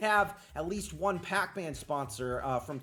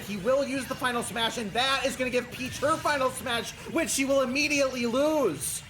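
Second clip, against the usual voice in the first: lively, slightly raised commentary voice; play-by-play; 6 semitones higher, 5 dB louder than usual. Real, not acted. Commentator narrating Peach against Pac-Man, live play-by-play. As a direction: call the match as it happens.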